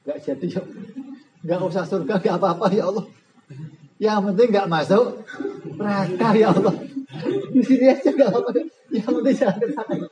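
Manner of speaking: high, laughing, rushed pleading to stay put; panicked sinner. Acted. Preacher voicing sinner begging God not to go to hell, frantic. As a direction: beg God to stay in the middle, laughing nervously.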